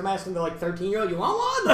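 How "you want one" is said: high-pitched, jokey offer; mock tipsy bartender. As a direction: imitate a drunk self playing bartender, voice pitched up. Drunk self offering kid drinks.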